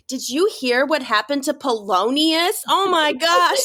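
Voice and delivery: hammed-up gossipy shock; gossipy gasp. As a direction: play a scandalised Zoom gossip. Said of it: "it'd be like".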